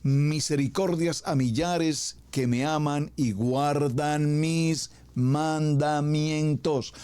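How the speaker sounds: slow, weighty reading of the Law; solemn scripture reading. Acted. Preacher reading the commandments to the congregation, solemn and slow. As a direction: read each commandment out as sacred text.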